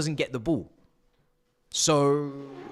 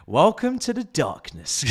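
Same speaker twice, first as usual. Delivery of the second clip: laughing; 3 semitones higher, slower than usual. Real, not acted. Camera goes black, laughing.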